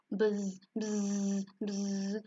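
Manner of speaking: long drawn-out buzzing zzz; bees buzzing. Acted. Bees scaring the guards away, buzzing. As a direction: hold the buzz like a bee. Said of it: "They make the sound".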